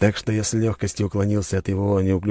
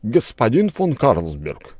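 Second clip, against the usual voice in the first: calm address; 5 semitones higher, 3 dB louder, slower than usual. A narrator's reading. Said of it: "спокойно произнёс распорядитель".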